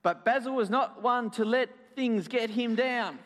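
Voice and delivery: put-on story narration to children. A narrator's reading. Storyteller tells children Basil carries on, narrating with bounce. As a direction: lift it brightly for young listeners.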